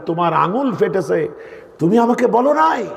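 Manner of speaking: retold alarm, rising on the last question; startled concern. Preacher voicing the Prophet learning of Ayesha's injury, startled. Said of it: "আঁতকে উঠে লাফ দিয়ে উঠলেন আর বললেন".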